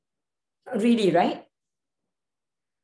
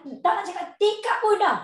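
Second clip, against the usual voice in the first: ordinary talk, nothing marked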